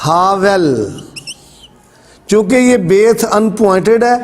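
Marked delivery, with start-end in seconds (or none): 0.1-0.7 ہاول with a v, haa-vel; ہاول, the b softened to v; Hebrew pronunciation. Shown as a demonstration. Teacher gives viewers the Hebrew ہاول, with v. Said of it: "عبرانی کا لفظ استعمال ہوا ہے".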